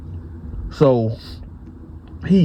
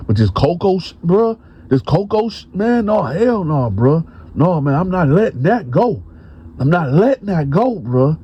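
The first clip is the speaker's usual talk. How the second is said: stubborn protest; 6 semitones higher than usual. Retold or imitated. Bone refusing to let it go.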